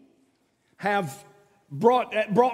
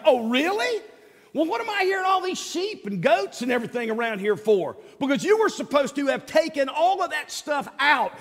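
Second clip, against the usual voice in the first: mock-surprised, higher, teasing questions; sarcastic Samuel; 5 semitones higher than usual. Samuel mocking Saul's claim, playful sarcasm. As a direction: needle him with sarcasm about the sheep. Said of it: "A little bit of good old sarcasm".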